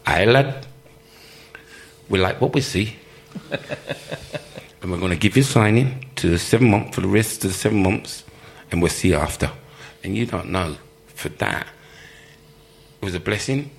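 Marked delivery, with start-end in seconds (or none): 0.0-9.5 put-on a light northern English accent as the manager; lightly voiced northern English manager; John Neal accent. Manager offering him a contract, light northern English accent. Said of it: "I'm giving you this John Neal accent".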